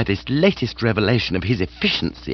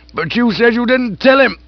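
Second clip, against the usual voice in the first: higher, louder, gushing aged aunt; hearty aunt voice; 13 semitones higher, 5 dB louder than usual. Acted. Aunt gushing to Bertie about lunch. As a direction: raise the pitch and relish the food.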